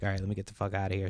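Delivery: fast, chipper act dropped; quick impatient brush-off; fed up. Retold or imitated. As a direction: rattle it off like she wants out. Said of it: "from being super chipper to be like".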